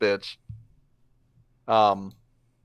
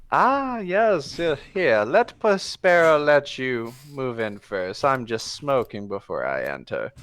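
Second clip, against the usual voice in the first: smug cat swashbuckler; 3 semitones higher than usual. Acted. Puss voiced by GM.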